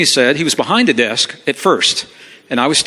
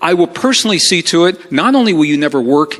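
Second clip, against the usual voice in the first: imitated boss's threat, pitched up; very condescending; 3 semitones higher than usual. Upset boss threatening a departing employee, condescending. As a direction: lecture him down with emphatic warnings. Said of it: "and very condescending".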